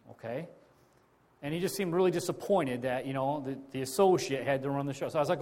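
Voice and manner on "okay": soft, slow, breathy deflated okay. Retold or imitated. Answering the disappointed preacher, deflated and quiet. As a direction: let the okay sink, hurt and quiet.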